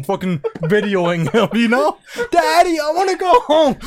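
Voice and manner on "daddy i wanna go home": whiny son. Retold or imitated. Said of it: "his poor son driving".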